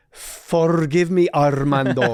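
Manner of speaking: slow, sarcastic fake-polite apology; mock apology. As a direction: draw it out, dripping sarcasm. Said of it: "And I was like".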